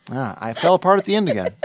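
normal talking voice

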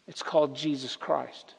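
softly, then a long silence; dramatic pause after. Shown as a demonstration. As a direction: let it land and hold the silence. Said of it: "I'm pausing on purpose".

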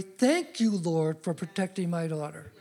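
calm, trusting thanks that softens and fades; a father showing a trusting way to pray; thankful prayer. Shown as a demonstration. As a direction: thank God as if it's already done. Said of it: "how you can pray differently".

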